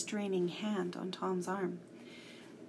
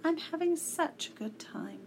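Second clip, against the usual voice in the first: coaxing; 7 semitones higher than usual. A narrator's reading. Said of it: "coaxed Lindy".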